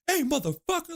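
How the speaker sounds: high mock yell at a stranger; aggressive yelling. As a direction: yell it like a street guy. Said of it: "it's aggressive yelling".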